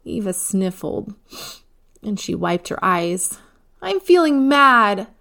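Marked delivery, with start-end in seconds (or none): 3.8-5.1 put-on loud, high, slow angry child shout; a little girl shouting her anger; yelled. A narrator's reading. Eva yelling at her mother, loud and angry. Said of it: "she yelled".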